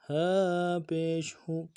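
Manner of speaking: ہو with a gentle breathy h; ہا said softly. Shown as a demonstration. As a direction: let the h of ہو flow softly. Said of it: "ہا کو نرمی سے پڑھنا ہے".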